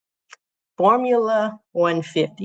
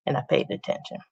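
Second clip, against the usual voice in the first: whispered; 3 semitones lower, 6 dB quieter, faster than usual. Real, not acted. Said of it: "self state".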